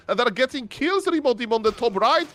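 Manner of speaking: excited. Real, not acted. Live play-by-play of a kill.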